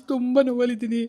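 the voice breaks into real crying; crying through the repeat. Real, not acted. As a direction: let the tears take over the words. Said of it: "ಏನಕ್ಕೆ ಇಷ್ಟೊಂದು ಅಳ್ತಾ ಇದ್ದೀನಿ".

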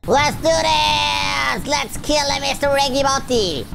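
high, drawn-out rallying shout; high-pitched cry, stretched slow at the start; battle cry. Real, not acted. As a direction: holler it like a charge into the fight. Battle cry before boss fight.

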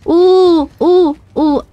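high, loud excited cooing; excited ooh. Real, not acted. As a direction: squeal with delight. Excited at loot.

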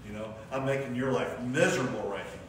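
a lightly voiced Satan gloating in your ear; mock Satan taunting. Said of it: "And Satan is telling you".

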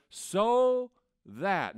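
SO drawn out in "So that"; emphatic. Acted. Preacher showing Paul's emphatic grammar, stress on "So". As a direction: lean long and hard on "So" in "So that". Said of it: "Paul's grammar here is emphatic".

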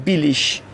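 بیلیش ending in "ish"; final G as SH. Shown as a demonstration. Teacher giving a second example, بیلیش ending in sh. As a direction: say بیلیش with sh for the written g.

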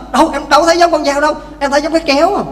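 wife contradicting. Acted. Wife contradicts husband, story.

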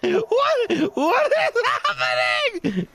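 high, laughing shout; cracking up mid-question; laughing in disbelief. Acted. Drunk character laughing in car.

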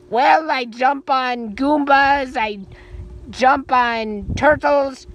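very deep, slow toy voice; low, slow, drawn-out figure voice; Luigi voice. Pretend. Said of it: "Hey, Luigi".

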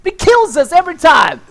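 high-pitched, stretched-out griping; exasperated rant. Real, not acted. Player griping about a sniper killing them, exasperated rant. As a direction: complain in comic exasperation. Complains about being killed repeatedly.

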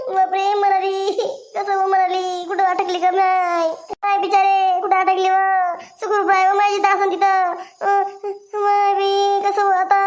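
tearful wail with drawn-out endings; acted weepy lament; crying. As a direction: lament the missing girl. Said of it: "तू रडू नको, सुकूबाई".

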